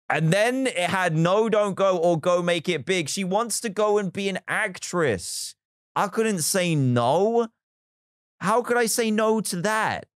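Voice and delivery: earnest high appeal; how could I refuse, pleading; high and imploring; high, pleading justification. Real, not acted. Defending the villager's dream.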